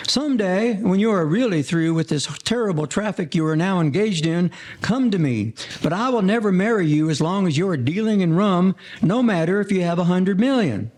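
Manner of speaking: a touch of her resolute parting words; quoting Miss Mary. Retold or imitated. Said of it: "she says".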